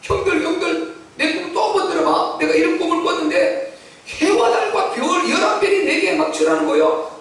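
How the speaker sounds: high-pitched excited brother retelling a dream; eager young Joseph. Acted. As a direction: call your brothers over, pitched high. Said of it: "그 꿈을 또 전달했더니요". (높은 목소리로 신나서)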